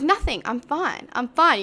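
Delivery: high, curt denial; typical "I'm fine". Retold or imitated. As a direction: insist nothing is wrong when it is. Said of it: "You know that typical".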